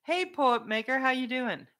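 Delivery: high, loud hello; calling out greeting. Real, not acted. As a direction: hail a newcomer loudly. Greeting an arriving viewer.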